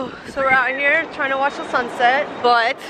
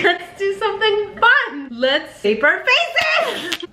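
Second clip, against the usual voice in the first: excited; 9 semitones higher, slower than usual. Retold or imitated. Excited plan, acted quote.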